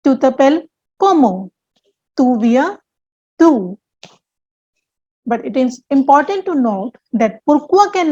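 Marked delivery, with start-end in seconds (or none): 0.0-1.5 comment stressed at the end. Shown as a demonstration. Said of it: "they are stressed with rising intonation". 2.2-3.8 d'où stressed at the end. Shown as a demonstration. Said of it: "they are stressed with rising intonation".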